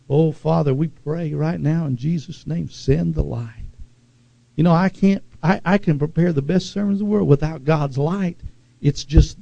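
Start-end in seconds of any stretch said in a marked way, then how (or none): 0.1-3.7 softer, lower prayer to God; hushed prayer. Real, not acted. Preacher praying to the Father, hushed prayer. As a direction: bring it down into quiet prayer.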